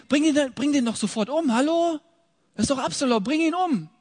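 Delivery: high, loud, outraged demand to kill him now; angry urging. Acted. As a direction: bark it out like an impatient commander. Joab urges killing Absalom.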